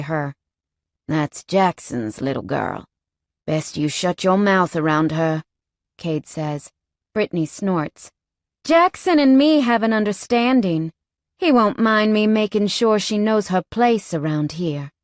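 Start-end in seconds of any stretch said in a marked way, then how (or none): 1.1-5.4 lightly voiced biker man. Cade warns Brittany. 8.6-14.9 lightly voiced biker woman. Brittany boasts.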